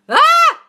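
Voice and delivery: short, loud, high yell; exasperated scream. Real, not acted. Coach fed up with water myths, exasperated scream. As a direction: let out a high scream of frustration.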